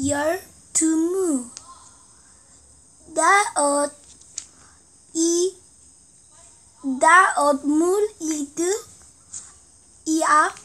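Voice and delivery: reading Korean text backwards syllable by syllable; halting, careful backward reading; backwards speech. Shown as a demonstration. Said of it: "한 페이지만 쓸게요".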